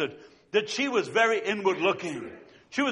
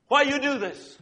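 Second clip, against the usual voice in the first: put-on pleading accented question; 6 semitones higher than usual. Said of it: "And she says to the lady".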